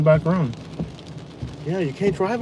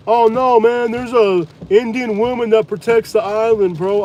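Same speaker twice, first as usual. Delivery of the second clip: higher, louder, slow stoner drawl; mocking a local believer; 5 semitones higher, 3 dB louder, slower than usual. Mocking the locals who won't leave, dopey drawl. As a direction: play the spaced-out local brushing off the warning. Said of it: "They're like".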